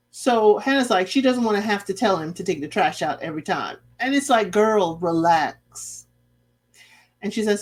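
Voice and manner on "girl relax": put-on slow girl relax. Telling Hannah to calm down.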